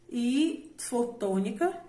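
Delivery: ordinary talk, nothing marked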